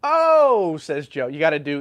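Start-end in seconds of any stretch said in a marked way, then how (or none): 0.0-0.8 loud, high "Oh", sliding down; big drawn-out holler. Acted. Streamer doing a viewer's requested big one despite a sore throat, loud holler. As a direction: belt out a big falling "Oh". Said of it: "you gotta do the big one".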